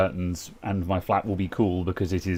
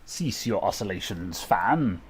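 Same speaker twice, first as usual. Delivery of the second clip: talking into a fan; 6 dB quieter, slower than usual. Shown as a demonstration. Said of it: "my impression of me talking into a fan".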